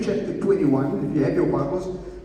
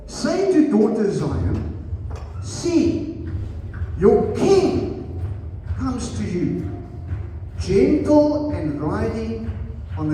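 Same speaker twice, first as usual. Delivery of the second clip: deliberate Bible reading, spacing out the phrases; scripture reading; 2 semitones higher than usual. Acted. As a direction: read the prophecy slowly to a congregation. Reads scripture aloud to congregation.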